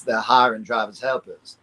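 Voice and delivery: Southern American accent with the hard R on hiring, drivers, helpers; demonstrating the Southern R for fellow actors, Southern accent. Shown as a demonstration. Lightly voiced Southern drawl with strong R sounds. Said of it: "If you do it in the Southern".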